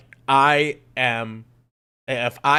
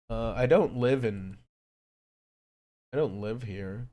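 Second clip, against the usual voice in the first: a muted repeat after the outburst; quiet grumble; 6 dB quieter than usual. Real, not acted. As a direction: mutter it again, deflated and soft.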